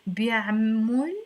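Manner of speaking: teacher's emphatic بيعمل with an o; broken-down demo. Shown as a demonstration. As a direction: stretch بيعمل clearly, ending in -mol. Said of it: "let's break it down".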